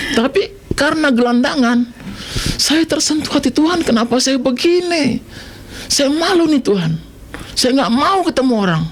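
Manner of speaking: mild ashamed lament; a hint of shame. Recalling shame as a homeless man.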